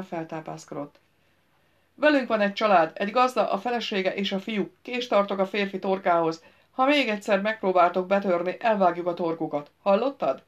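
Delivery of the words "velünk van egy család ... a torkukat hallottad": threatening shout. A narrator's reading. Royce threatens knight through door.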